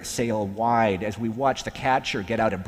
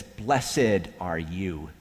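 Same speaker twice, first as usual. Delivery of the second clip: Blessed are you. drawn out very slowly, each word apart; slowed blessing; 4 semitones lower, much slower than usual. Shown as a demonstration. Preacher marking the break in rhythm, very slowly. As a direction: stretch out Blessed are you, then let it fall. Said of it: "Jesus breaks the rhythm".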